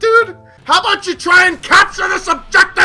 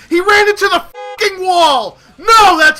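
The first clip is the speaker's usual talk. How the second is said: angry shout; 4 dB louder than usual. Real, not acted. Raging at teammate.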